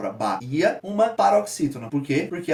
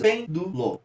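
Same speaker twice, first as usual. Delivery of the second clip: "Pêndulo" divided into pên, du, lo; three separate beats on "Pêndulo"; syllable by syllable; 3 semitones higher, much slower than usual. Shown as a demonstration. Teacher separating the syllables, syllable by syllable. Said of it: "eu tenho três sílabas".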